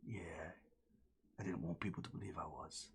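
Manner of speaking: quick whisper, leaning in; conspiratorial whisper. Acted. The captain leans in and whispers a pirate secret to the party. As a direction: whisper the secret fast and slyly.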